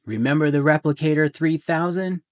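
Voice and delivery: excited reminder. Acted. Playful aside to listener.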